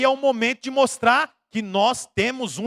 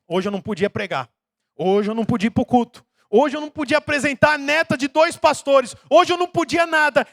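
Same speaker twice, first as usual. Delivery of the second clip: building self-reproach; 4 semitones higher, 3 dB louder than usual. Retold or imitated. Preacher voicing his own guilt, rising louder each line.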